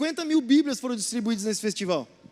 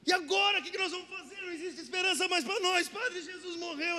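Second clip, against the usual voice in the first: hammed-up lament, fading softer; mock despair; 3 semitones higher, 5 dB quieter than usual. Playing desperate to the fake priest, mock lament. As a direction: pretend hopelessness trailing off. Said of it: "A gente começou a ficar desesperado".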